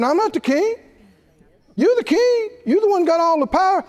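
very high-pitched imitation whine; mock crying. Janice refusing the king's order, high mock-tearful protest. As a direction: plead in a high, pretend-tearful voice. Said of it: "what if Janice started crying".

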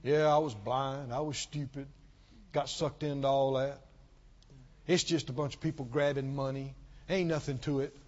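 a hint of a bitter ex-churchgoer brushing it off; dismissive ex-believer. Preacher imitating offended believers who left, lightly scoffing. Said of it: "there's a number of people talk like this".

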